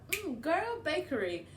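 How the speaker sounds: put-on GIRL drawn out high and emphatic; slow, high sass-queen punch on "girl"; sassy emphasis. Shown as a demonstration. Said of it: "the emphasis is a bit".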